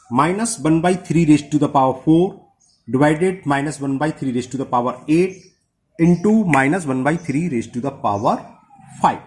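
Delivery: slow, even dictation of each term. Shown as a demonstration. Teacher dictating the seventh part to students, slow. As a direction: read it out slowly for copying.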